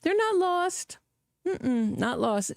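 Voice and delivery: "not" pushed up high on "They're not lost"; stress on not lost. Real, not acted. Host correcting a caller's wording, stressing not. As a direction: lean hard on "not" in "not lost". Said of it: "Do you see how language is so important?".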